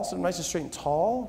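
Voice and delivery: quiet follow-up command. Acted. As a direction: ease off and say it again gently. Instruction repeated more softly.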